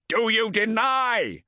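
high, loud, slow demand; shouting taskmaster. Acted. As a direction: bark the challenge. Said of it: "shouted the taskmaster".

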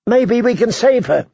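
put-on high, hopeful child's plea; pleading little girl. Girl hoping to save her mother, high and pleading. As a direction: plead upward in a young girl's voice.

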